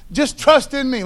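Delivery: "Just trust in me" with a laugh, then rethought; laughing first try. Shown as a demonstration. Preacher laughing as he voices God's promise. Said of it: "Let me say it like that".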